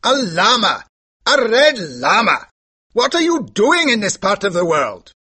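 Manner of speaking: high, loud shout in a character voice. A narrator's reading. Horse dealer challenging the visiting lama, shouting. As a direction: shout it out in high-pitched astonishment. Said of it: "shouted Mahbub".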